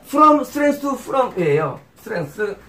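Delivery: English words in a Japanese-style accent; slow English with Japanese-style pronunciation. Real, not acted. Preacher reading the English verse phrase to listeners, Japanese-style accent. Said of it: "제가 발음이 이게 일본식".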